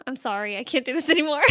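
ordinary delivery

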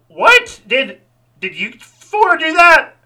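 shrill high shocked squeak. Acted. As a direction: gasp it out, high and stunned. Worker shocked at fallen animatronics.

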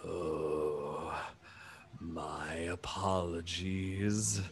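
low, very slow, soft giant; drawn-out apology in a deep, gentle voice; sheepish elephant person. Acted. Elephant alien apologizes for his unclear sign, sheepish and slow. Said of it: "hunches his shoulders a bit, and he says".

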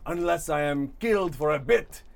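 lightly voiced, grandiose storybook fish; pompous fish character. GM voices Mustache Fish monologue.

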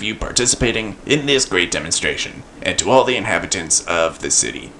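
lightly voiced bored dictator reading; bored monotone. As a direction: drone the speech flatly, bored. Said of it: "in a bored and monotone voice".

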